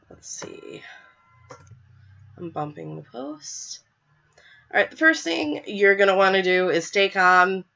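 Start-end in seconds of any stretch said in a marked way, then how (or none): 0.1-3.8 whisper. Real, not acted. Reading chat to herself.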